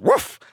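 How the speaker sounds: one bright yappy bark; high puppy bark. Acted. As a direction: yip it up high.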